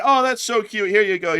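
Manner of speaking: high, loud doting praise; cooing pet owner. Acted. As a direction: reward a pet after its trick. Owner rewards pet after its trick.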